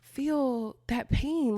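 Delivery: pleading disbelief. Retold or imitated. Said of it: "Then I'm like".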